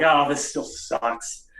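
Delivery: oh this still sucks, slowly and defeated; a slow, fed-up sigh of a line; slow, let-down groan. Retold or imitated. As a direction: drag it out, deflated. Quoting self in car.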